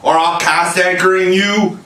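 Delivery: furious captain threatening his men; angry cry. A narrator's reading. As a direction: bark the threat at the crew. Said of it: "he cried".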